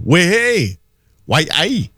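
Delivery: high, drawn-out Geordie exclamations; Geordie accent. Retold or imitated. Recalling the talk around Gateshead and Newcastle, Geordie accent. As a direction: imitate a Geordie calling out. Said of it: "you would hear the Geordie accent".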